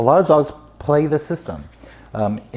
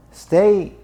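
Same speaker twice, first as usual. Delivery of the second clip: firm command; 8 semitones higher, 4 dB louder than usual. Shown as a demonstration. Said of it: "the word stay is overused".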